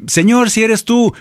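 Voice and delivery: high, acted cry for help; dramatized desperate appeal; urgent plea. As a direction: plead at a high pitch like someone in danger. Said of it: "Cualquiera le hubiera dicho".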